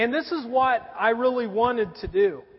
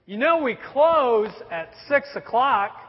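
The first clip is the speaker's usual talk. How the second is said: slow, raised-voice mock call; imitated yell; 2 semitones higher, 5 dB louder, slower than usual. Employee calling to a late customer at closing, mock yell. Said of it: "the guy yells out to me".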